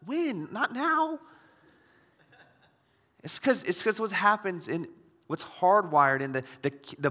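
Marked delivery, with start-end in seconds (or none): 0.1-1.2 high, startled "When? Not now."; mock alarmed refusal. Pastor recalls answering his wife, mock alarmed and high. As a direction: balk at the idea in mock alarm. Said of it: "I was like".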